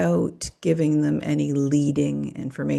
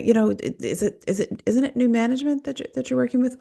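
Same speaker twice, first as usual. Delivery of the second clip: mock probing therapist; 8 semitones higher than usual.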